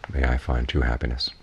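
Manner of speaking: gentle emphasis on "true"; stress on TRUE. Shown as a demonstration. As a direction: lean slightly on the word "true". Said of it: "With an emphasis on the true".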